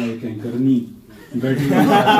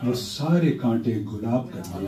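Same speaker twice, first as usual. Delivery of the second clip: stately nazm recitation; 3 semitones higher than usual. Acted. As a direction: recite it with gravity. Poet recites his prayer nazm.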